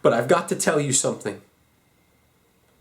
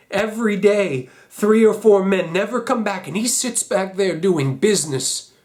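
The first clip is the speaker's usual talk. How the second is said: raised, indignant outrage; bitter outrage; 4 semitones higher, 4 dB louder than usual. Acted. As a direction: let the disgust push the voice up. Letter's outrage at father.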